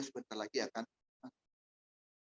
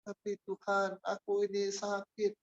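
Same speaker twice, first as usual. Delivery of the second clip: put-on childlike complaint; 5 semitones higher than usual. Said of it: "Dia bilang".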